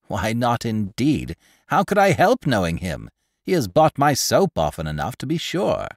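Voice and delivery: chattering market woman spreading news; gossipy old woman. Acted. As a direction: relish every grisly detail like a village gossip. Pundor boasts she knows him.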